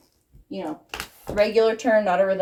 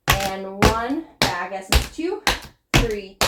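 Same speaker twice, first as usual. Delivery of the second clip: counting the beat; 5 dB louder, slower than usual. Shown as a demonstration. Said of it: "So it's".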